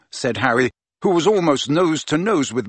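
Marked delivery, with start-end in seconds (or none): none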